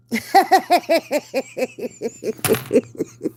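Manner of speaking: big hearty laugh. Real, not acted. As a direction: burst out laughing at your own joke. Laughs at own joke.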